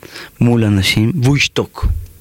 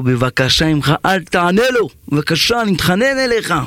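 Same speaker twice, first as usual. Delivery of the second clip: higher, pleading voice; begging plea; 6 semitones higher than usual. Acted. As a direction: beg him desperately not to answer. Man begs the other not to answer.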